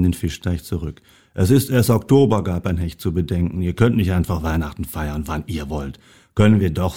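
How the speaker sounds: lively storybook reading; reading a story to an audience; story narration. A narrator's reading. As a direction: read the tale aloud, animating each animal's lines. Reads a Christmas story aloud.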